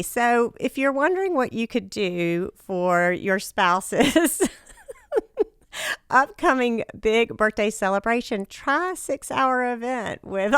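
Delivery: hoarse, worn-out voice after partying; raspy from a night of singing. Real, not acted. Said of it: "that's the reason for the raspy voice".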